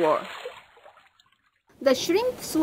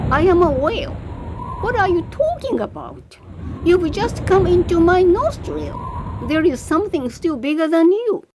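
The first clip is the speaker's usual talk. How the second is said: booming whale; 3 semitones higher than usual. Acted. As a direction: boom it out like a giant whale. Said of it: "a booming voice".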